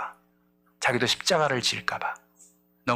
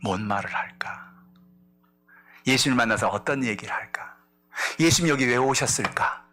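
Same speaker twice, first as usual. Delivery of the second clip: whispered thoughts; 3 semitones lower than usual. Acted. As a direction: whisper Peter's anxious thoughts to himself. Peter's inner thoughts. (속으로 속삭이는 생각)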